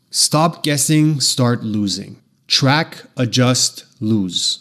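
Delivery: slow, concise, authoritative orders; commanding. Shown as a demonstration. Demo ad line for a weight loss app, commanding. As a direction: command the listener to act, no softening. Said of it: "commanding tone sounds like this".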